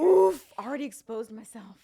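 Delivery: breathy embarrassed whisper. Real, not acted. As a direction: hush it like a confession. Embarrassed aside.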